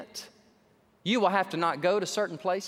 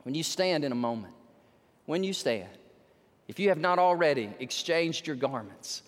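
altar call; 6 semitones lower than usual. Real, not acted. Preacher's lowered invitation.

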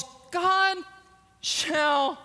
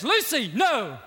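a hint of a lion's stern warning; lightly voiced Aslan calling her off; mild stern call of Aslan; Aslan's warning voice; 2 semitones higher, 5 dB louder than usual. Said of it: "you hear this voice that says".

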